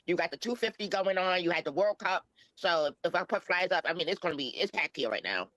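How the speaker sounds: disguised voice through a voice changer. Real, not acted. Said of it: "Is this Nick with a voice changer?".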